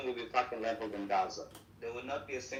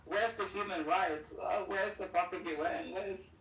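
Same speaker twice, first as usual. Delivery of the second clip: 1 mocking whine; 5 semitones higher, slower than usual. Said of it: "they're like".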